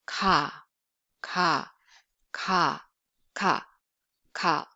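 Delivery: "Ka" with a lax k, no aspiration; plain Korean k in "Ka"; plain unvoiced k. Shown as a demonstration. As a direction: say "ka" relaxed, between k and g. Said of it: "no, no voice sound".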